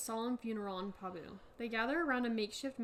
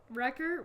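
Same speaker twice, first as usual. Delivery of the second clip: Wrecker said like a question, rising; questioning rise; 3 dB louder than usual. Acted. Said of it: "why did I say it like a question?".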